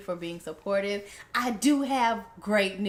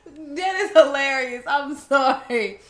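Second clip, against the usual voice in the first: high, loud and drawn out; highly amused; 6 semitones higher, 10 dB louder than usual. Real, not acted. Listener reacting to the gangster pig story, loudly tickled. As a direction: exclaim it, tickled beyond control.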